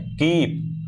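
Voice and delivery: "कीप" with the ई held; long vowel. Shown as a demonstration. Teacher gives long vowel example, "कीप" with a drawn-out ई. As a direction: lengthen the ई in "कीप". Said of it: "काफ़ी time तक आ रहा है".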